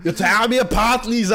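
lightly hammed-up movie melodrama; mock anguished plea in a put-on accent; Tommy Wiseau. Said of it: "som var Tommy Wiseau".

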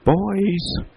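put-on high, drawn-out sing-out to the boys; calling out. A narrator's reading. Mother calls her boys from downstairs, calling out. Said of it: "called from downstairs".

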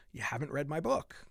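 normal talking voice

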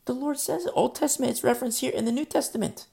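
fervent preaching. Real, not acted. Preaching emphatically.

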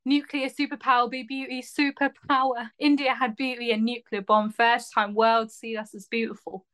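put-on Essex accent monologue read; Essex-accented audition reading. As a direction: deliver it in Essex stylings. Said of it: "read it in the stylings of Essex".

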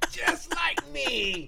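slow, high, laughing tease; laughing teasing. Real, not acted. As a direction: tease him through a laugh. Mocking friend while laughing.

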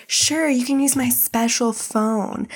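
slow, insinuating retold offer; mock predatory. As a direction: lightly play the creep, stretching it out. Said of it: "this is where the predatory behavior comes in".

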